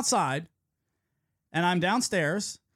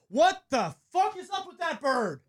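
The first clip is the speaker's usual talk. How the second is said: imitating Belly; 7 semitones higher, slower than usual. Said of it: "he goes".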